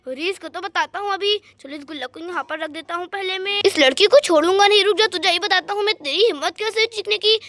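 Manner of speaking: lightly voiced thief, annoyed; menacing thief. Thief to the girl who cried out, menacing. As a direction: threaten her for making noise.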